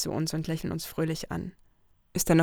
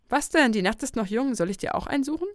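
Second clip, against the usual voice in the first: high, loud, mischievous; teasing Lucy; 6 semitones higher, 5 dB louder than usual. Acted. Lucy teases her friend about finding her a date too, high and mischievous. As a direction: needle your prudish friend.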